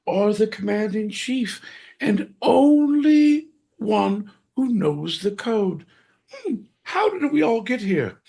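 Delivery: high, slow theatrical villain; high dramatic villain. Pretend. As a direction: stretch it out, high and grand. Villain monologue climax.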